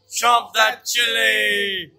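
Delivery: shouted call. Real, not acted. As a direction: shout it to kick off. Countdown call to start eating.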